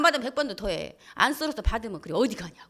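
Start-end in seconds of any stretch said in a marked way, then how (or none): 2.1-2.7 whispered, lower questioning; jealous husband on the phone, whispering; suspicious whisper. Retold or imitated.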